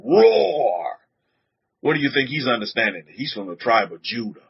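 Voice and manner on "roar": child's mock roar. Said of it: "He'll go".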